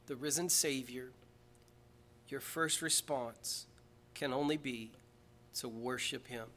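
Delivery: reverent hush. Acted. Soft, slow reverent preaching.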